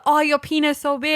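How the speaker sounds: exaggerated Chinese-accented English, lightly done; mock Chinese accent. Co-host imitates a South Park character flattering politicians, mock Chinese accent. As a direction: put on a crude Chinese accent. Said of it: "do an offensive Chinese accent".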